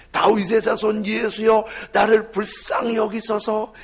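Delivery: loud plea for mercy; pleading cry. Acted. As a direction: call out to Jesus for mercy. 맹인의 외침을 재연. (크게 부르짖는 간구)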